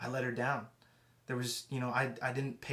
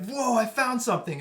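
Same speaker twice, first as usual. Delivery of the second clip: higher and louder, a thrilled gasp of discovery; excited discovery; 10 semitones higher, 8 dB louder than usual. Retold or imitated. Preacher recalling finding something, excited exclaim. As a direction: burst out like you just struck treasure. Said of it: "that moment that you're like".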